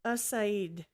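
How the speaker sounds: "Usaid" with a reduced first vowel, like "uh-SIGHD"; attempted pronunciation. Shown as a demonstration. Trying the name from ChatGPT's guide, attempted pronunciation of "Usaid". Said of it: "how to say it".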